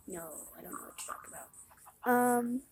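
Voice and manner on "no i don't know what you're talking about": fast, much softer unvoiced denial; mock innocent whisper. Pretending innocence to the farmer who hired her. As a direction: hurriedly deny it under your breath.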